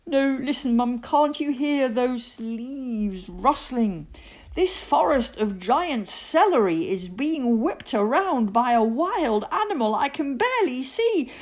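put-on high boy's voice climbing into panic; frightened child, mounting to a wail; scared. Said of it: "I'm scared".

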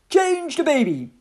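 captain handing off a dirty job; barked order. A narrator's reading. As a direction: order it across the deck.

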